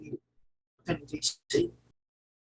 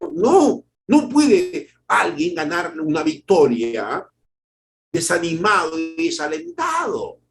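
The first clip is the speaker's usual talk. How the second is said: forceful preaching; 3 semitones higher, slower than usual. Acted. Preacher building to a climax.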